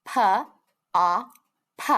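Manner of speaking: "P, O, P" as three isolated letter sounds. Shown as a demonstration. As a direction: tap out "P, O, P" with clear gaps. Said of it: "each sound you hear in the word".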